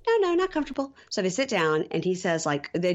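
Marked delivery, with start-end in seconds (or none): 0.1-0.9 mock uneasy protest. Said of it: "she's like".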